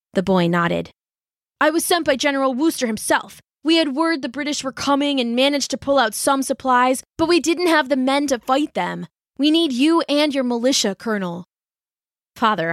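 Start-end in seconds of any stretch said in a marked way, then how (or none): 1.6-11.5 put-on higher young rider, urgent; young messenger. Messenger boy asks the colonel for his militia, higher and urgent. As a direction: plead for help from the colonel.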